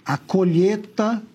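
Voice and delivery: "colheita" said as "colheta", drawn out; Lula's pronunciation. Retold or imitated. Commentator mocking the president's speech, "colheita" as "colheta". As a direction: drop the i in "colheita": co-LHE-ta. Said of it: "Pronúncia do nosso presidente analfabeto".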